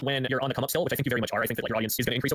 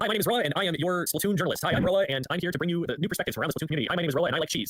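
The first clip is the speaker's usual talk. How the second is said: "Roa" said slowly and clearly, a touch higher; slow clear intro; 5 semitones higher than usual. Shown as a demonstration. Guest demoing a scripted intro line, slow and clear. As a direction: announce yourself slowly, like a scripted opener. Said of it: "Here's what you do".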